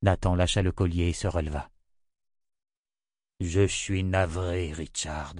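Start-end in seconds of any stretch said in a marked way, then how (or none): 3.4-5.3 slow, sorrowful, fading away on the name; regretful. Acted. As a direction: break it gently to him. Old prophet gives bad news.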